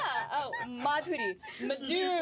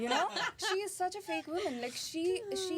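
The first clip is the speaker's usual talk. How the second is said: mock indignation; 6 semitones higher than usual. Acts out past indignation, laughing.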